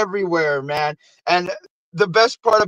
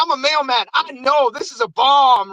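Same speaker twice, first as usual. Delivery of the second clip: higher-pitched, worked-up declaration; mock threat; 5 semitones higher than usual. Mailman warning everyone about his package, mock threatening shout. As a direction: imitate a shouting bluffer.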